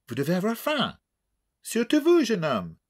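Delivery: put-on voix douce et aiguë, accent anglais caricatural; vieille Anglaise distinguée. A narrator's reading. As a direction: une mamie britannique charmée qui réclame la suite. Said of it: "voix douce et distinguée". (vieille dame anglaise au ton doux et distingué)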